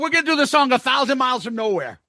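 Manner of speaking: laughing through the retelling; high and giggly, cracking up; chuckling along at the story's punchline. Real, not acted.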